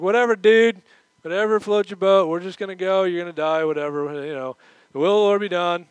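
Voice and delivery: mock disciples brushing Paul off; flippant shrug. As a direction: toss it off flippantly. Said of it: "fatalistic resignation".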